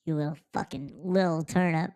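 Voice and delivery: retold affection. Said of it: "'Cause I'm like".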